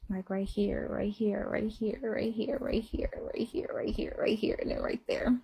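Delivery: breathy hush, like telling a secret; hushed whisper. Retold or imitated. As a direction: whisper each right here softly. Showing where he kisses her.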